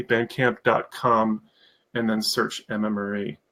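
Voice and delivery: Bandcamp dot com said slowly, each part clear; slowly dictating the website for listeners; slow, clear spelling out. Shown as a demonstration. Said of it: "thank you, Cindy".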